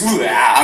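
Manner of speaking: hammed-up "ugh" of dread; shuddering groan. Poet recoils from ambidextrous poets, mock shuddering groan.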